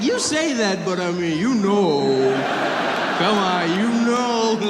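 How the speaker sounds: high, loud, knowing nudge; coaxing insinuation. Retold or imitated. Son pressing mother to admit his news wins, loud knowing coaxing. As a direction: press the hint with mock playfulness. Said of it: "I was like".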